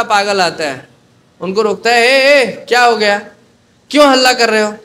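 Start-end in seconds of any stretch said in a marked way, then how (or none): 2.0-4.7 loud, higher 'ए, ए' to stop him; scolding. Retold or imitated. Second madman halting the shouter, loud scolding. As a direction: snap at him to quit the noise.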